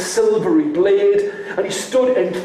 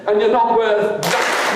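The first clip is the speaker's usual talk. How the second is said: scornful; 3 semitones higher than usual. Shown as a demonstration. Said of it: "Just once".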